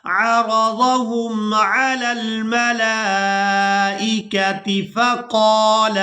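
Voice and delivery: slow, chanted tajweed reading; Quran recitation. Shown as a demonstration. Teacher chanting the verse before explaining it, melodic recitation. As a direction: sing the verse out slowly. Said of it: "یہاں پر ہم وقف نہیں کریں گے".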